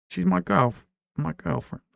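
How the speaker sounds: a rough attempt at a British accent, girlfriend with a clipped British vowel; testing out a mock British accent on the word; trying British accent. Shown as a demonstration. Streamer to chat, trying the word in a British accent. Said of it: "How do they say girlfriend in British?".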